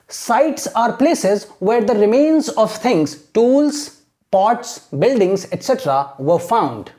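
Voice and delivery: very slow, careful English read-out; slow, measured model reading; teacher reading aloud. Shown as a demonstration. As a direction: read word by word for learners, pausing between list items. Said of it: "तो इसको मैं read करूंगा".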